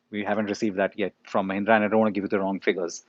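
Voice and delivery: breathless, words rushed fast; short of air, pushing through quickly; out of breath. Real, not acted. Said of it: "I'm running out of breath now".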